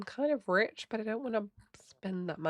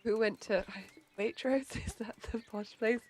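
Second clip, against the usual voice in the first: mock posh accent; 4 dB quieter than usual. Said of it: "I don't think this is posh".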